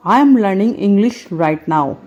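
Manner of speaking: slow, clear teacher model; slow model sentence. Shown as a demonstration. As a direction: dictate it slowly. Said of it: "ये sentence आप हमेशा बोलेंगे". (धीमे, साफ़ बोलकर)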